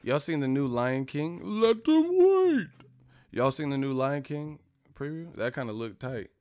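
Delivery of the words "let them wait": slow, much higher hammed-up impression; Al Heyman voice. Repeating the Al Haymon bit, high and slow. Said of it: "sound like Al Heyman".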